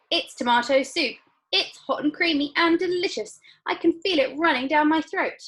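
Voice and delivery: put-on high, loud, thrilled girl voice; excited Violet. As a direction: gush over the soup. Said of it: "shouted Violet".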